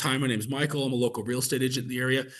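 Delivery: fast, brisk intro; quick short opener. Shown as a demonstration. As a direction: rattle the opener off fast, straight to the point. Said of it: "I keep my opening super short".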